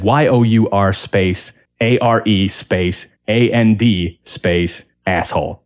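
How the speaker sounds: slow, letter by letter, each letter spelled out; spelling out dad's misspelling. Retold or imitated. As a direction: read out every letter slowly, like dictation. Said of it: "He, he said".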